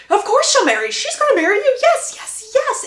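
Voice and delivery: high, loud, insistent acceptance; eager interjection. Acted. Lady Danbury answers the proposal for Hyacinth, insistently eager.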